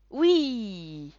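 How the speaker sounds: put-on high, loud kids' reply; children answering. A narrator's reading. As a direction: shout it like eager kids. (réponse d'enfants aiguë)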